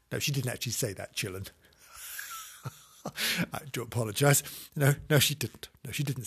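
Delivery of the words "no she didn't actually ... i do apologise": soft, fast aside; softer sheepish take-back; hushed correction. Real, not acted. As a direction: quickly hush it back.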